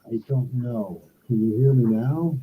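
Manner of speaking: muffled, boomy bad mic; inside a barrel. Real, not acted. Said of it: "Sounds like you're talking into a barrel".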